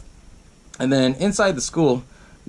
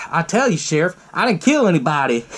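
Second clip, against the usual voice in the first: higher-pitched mock twang; Southern-style twang; 4 semitones higher than usual. Billy protesting to the sheriff, imitated twang. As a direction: plead innocence with a twang. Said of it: "how the hell they had a twang".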